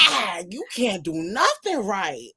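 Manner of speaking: slow, swooping exasperated complaint; exaggerated exasperated groan of a line; mock exasperation. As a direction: draw it out, playfully fed up. Voicing reaction to constantly unhappy friend.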